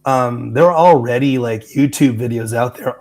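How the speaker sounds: lost voice, hoarse and rough. Real, not acted. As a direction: talk through a hoarse voice. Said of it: "I apologize for my voice".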